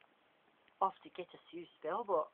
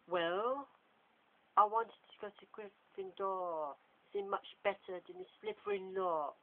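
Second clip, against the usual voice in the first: smug, slow higher voice with a grin; sneaky smile; 4 semitones higher, 3 dB louder, slower than usual. Acted. James to Richard, a sneaky smiling answer. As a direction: tease them with a grin. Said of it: "said James with a sneaky smile".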